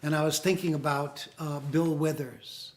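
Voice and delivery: muffled, distant, like under water; bad connection, sound swallowed; underwater. Real, not acted. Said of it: "Sounds like you're underwater".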